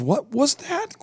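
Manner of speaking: high, puzzled voice over a bad webcam line; lagging webcam reply. Sister on a laggy webcam, puzzled. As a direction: she can't make out the words. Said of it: "and then she goes".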